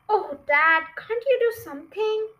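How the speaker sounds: put-on high, loud pleading child voice; pleading small fox. Small fox begging Dad, high and pleading. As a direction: beg Dad to save them. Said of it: "said one of the small foxes".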